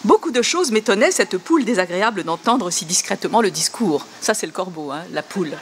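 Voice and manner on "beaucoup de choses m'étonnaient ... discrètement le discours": mock poem reading. Shown as a demonstration. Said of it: "je vais un peu plus loin".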